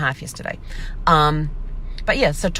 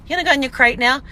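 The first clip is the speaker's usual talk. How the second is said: coaxing puppy voice; 9 semitones higher, 3 dB louder, faster than usual. Retold or imitated. Retold coaxing puppy into crate.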